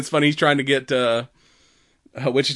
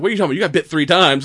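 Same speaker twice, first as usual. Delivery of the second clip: 1 incredulous retort; 5 semitones higher, 7 dB louder, much faster than usual. Retold or imitated. Retold argument about bite.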